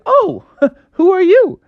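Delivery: high, laughing question; laughing surprise. Acted. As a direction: chuckle it out, curious. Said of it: "And Froggy said".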